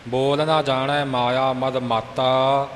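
ਮਾਤਾ said hard, not loosely; firm ਮਾਤਾ. Shown as a demonstration. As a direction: model line ending on a firm "mattaa" for ਮਾਤਾ. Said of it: "ਮਾਤਾ ਪੋਲਾ ਨਹੀਂ ਬੋਲਣਾ".

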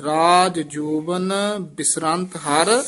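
ਰਾਜ ਜੋਬਨ ਬਿਸਰੰਤ ਹਰ ending with a rise and a halt on ਹਰ; pause after ਹਰ. Shown as a demonstration. Teacher showing the short pause before ਮਾਇਆ. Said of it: "ਇੱਥੇ ਠਮਕ ਲਾ ਕੇ".

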